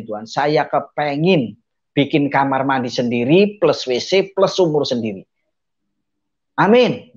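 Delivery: re-enacted earnest plea to God; retold prayer. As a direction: pray aloud as in a testimony, firm amen. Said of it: "Saya sambil doa begini".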